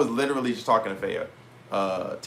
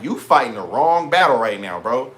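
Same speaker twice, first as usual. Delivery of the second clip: emphatic retort; 5 dB louder than usual. Retold or imitated. Telling Faye she's wrong.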